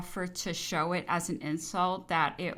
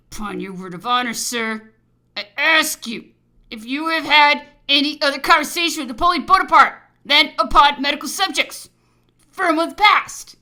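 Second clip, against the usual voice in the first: loud, high, menacing demand; 7 semitones higher, 12 dB louder than usual. A narrator's reading. Governor interrogating the officer about his conversations, menacing. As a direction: interrogate forcefully, building louder and higher. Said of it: "looking at me in a menacing manner".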